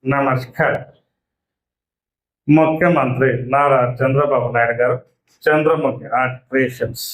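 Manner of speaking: deep, formal TV newsreader voice; Shanti Swaroop announcer impression. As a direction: announce it like an old Doordarshan news anchor, low and measured. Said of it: "శాంతి స్వరూప్ గారు".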